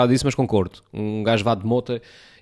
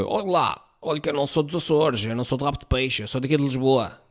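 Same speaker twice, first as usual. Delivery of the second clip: arrogant man; 2 semitones higher, 3 dB quieter than usual. Retold or imitated. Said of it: "o argumento dele foi".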